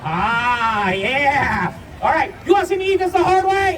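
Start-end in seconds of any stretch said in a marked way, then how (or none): 2.0-3.8 fire eater boasting. Acted. Fire eater hyping the crowd.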